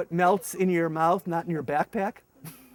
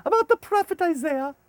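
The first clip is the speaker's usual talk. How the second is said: translator explaining; 10 semitones higher, 4 dB louder than usual. Retold or imitated. Translator answers.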